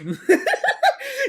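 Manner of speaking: high cackling laugh; loud burst of laughter. Real, not acted. Laughs at his own joke.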